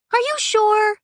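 very high, loud squeaky question; high-pitched nervous figure; unsure, shy girl. Acted. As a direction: pipe it up high, doubtful. Shy Aiko doubts, voiced very high.

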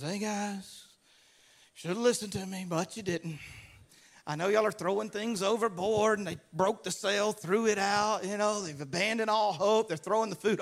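lightly acted unruffled calm; peace like a river. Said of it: "He's peace like a river".

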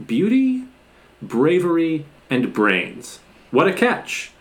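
lightly acted admiring movie line, lilting up high; Charlize Theron. Host quotes the heroine flattering a student, mock admiring lilt. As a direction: quote her with spaced words and rising pitch. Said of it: "Charlize Theron responds to this".

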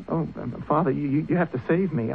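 frightened plea. Acted. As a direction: beg your father to save you. Son begging father after murder.

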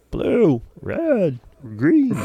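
put-on high, eager child answering; little kid voice. Son telling dad the night light color, high and eager. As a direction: squeak out the colors like a small kid.

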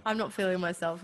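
hoarse, croaky voice. Real, not acted. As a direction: talk through a sore throat. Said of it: "my croaky voice".

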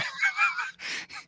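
high shrieking burst of laughter. Real, not acted. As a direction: squeal with laughter. Reacts to being called ticklish.

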